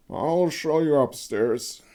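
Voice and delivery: a hint of a reluctant host; lightly voiced villager showing the way; lightly voiced Konrad. A narrator's reading.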